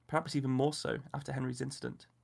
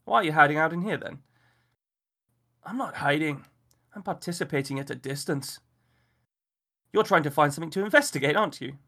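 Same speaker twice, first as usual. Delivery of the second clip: a husband teasing a friend; amused host; 3 semitones higher, 8 dB louder than usual. A narrator's reading. Henry teases Miller at the window, louder.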